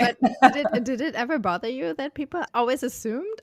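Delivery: asking through laughter; laughing. Real, not acted. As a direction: laugh while you ask. Asks while laughing.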